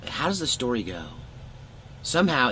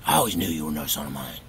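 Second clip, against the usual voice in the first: mildly mimicked angry dad; 6 semitones lower, faster than usual. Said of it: "He was just mad about something".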